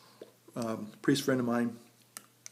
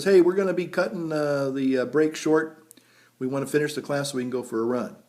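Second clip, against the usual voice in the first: drill instructor; 3 semitones higher, 7 dB louder than usual. Retold or imitated. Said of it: "the instructor says".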